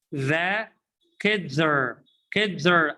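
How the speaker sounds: put-on "kids are" joined as one word, "kidzer"; "are" cut to an R after "kids"; linked reduced are. Shown as a demonstration. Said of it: "as I told you".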